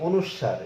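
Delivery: অনুস্বার as "onushshar", carefully sounded; deliberate অনুস্বার with a long "sh"; full letter-name pronunciation. Shown as a demonstration. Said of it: "এরকম কোনো উচ্চারণ আমরা পাচ্ছি না".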